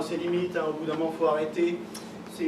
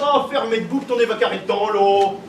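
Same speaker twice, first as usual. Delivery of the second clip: put-on Ch'ti accent; 7 dB louder than usual. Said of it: "C'est du ch'ti".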